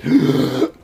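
a sudden sharp intake of breath; sharp gasp. A narrator's reading. DM voicing the party's shared gasp. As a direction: gasp as the vision hits. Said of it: "sharp intake of breath".

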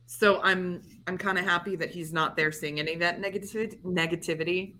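slightly slurred words around a marker in mouth; talking with a Sharpie in the mouth; slurred speech. Real, not acted. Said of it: "Sorry, I'm slurring my words a little bit".

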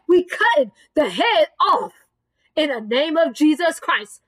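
rhythmic, emphatic preacher's proclamation; declaratory preaching. Real, not acted. Preacher declaring victory over every giant, emphatic preaching. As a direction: drive each repeated phrase home with conviction.

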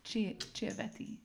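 soft slow Italian Chiovetti; Italian accent. Shown as a demonstration. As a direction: Chiovetti said the Italian way, with a hand gesture. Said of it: "you have to say it like this, like with your hand".

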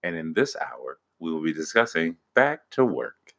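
lightly mocked public-radio announcer; soft, measured radio-host introduction. Husband announces the hour's topic, mock radio host. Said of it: "don't ruin my N P R".

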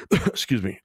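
coughing after choking; clearing a choked throat; choking on a drink. Real, not acted. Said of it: "I'm over here choking".

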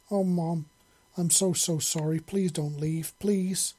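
lightly voiced tearful plea, rising on the last please; a touch of a wailing child begging; mild wail. Young Xeno begs her mom not to leave, gently wailing. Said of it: "the young Xeno wailed".

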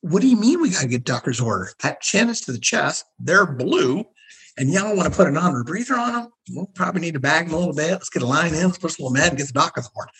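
fed-up medic arguing with nurses; exasperated. Retold or imitated. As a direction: urgently talk them through it. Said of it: "I'm like".

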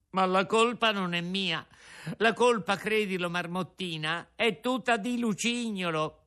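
high, insistent puppet voice; pleading Pinocchio. A narrator's reading. Pinocchio blames Lucignolo to the marmot, high and pleading. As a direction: protest your innocence.

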